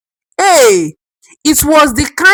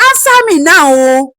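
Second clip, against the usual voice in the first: shouted demand; 4 semitones higher than usual. Acted. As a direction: force an answer. Demanding answer.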